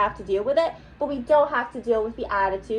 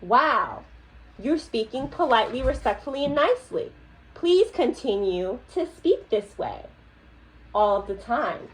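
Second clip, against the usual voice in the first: condescending. Real, not acted. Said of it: "the tone that you said it in".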